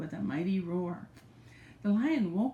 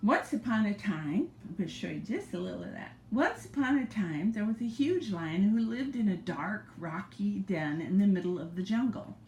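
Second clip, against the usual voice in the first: put-on gentle read-aloud to a child; grandma reading a storybook; story narration.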